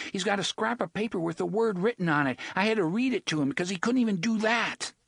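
put-on boy voice. A narrator's reading. Jake accusing, raised.

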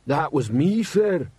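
a troll reproaching his boss; reproachful troll. A narrator's reading. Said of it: "said the troll reproachfully".

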